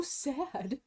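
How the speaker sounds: slow, laughing through the words. Real, not acted. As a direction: laugh it out slowly. Laughing at own sadness.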